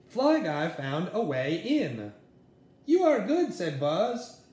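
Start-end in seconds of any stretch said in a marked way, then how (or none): 2.8-3.5 excited praise. Acted. Boy praises fly in game.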